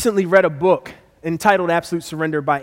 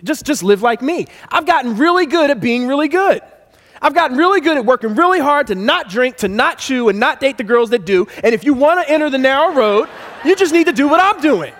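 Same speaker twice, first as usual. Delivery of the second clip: smug religious person; 4 semitones higher than usual. Retold or imitated. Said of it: "the religious people say".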